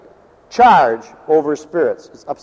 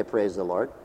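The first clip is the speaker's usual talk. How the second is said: "Praise the Lord" pushed out lower and much softer, as if stuck; stuck in the throat; 7 semitones lower, 10 dB quieter than usual. Shown as a demonstration. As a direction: force "Praise the Lord" past a lump in the throat. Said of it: "It'd stick right about here".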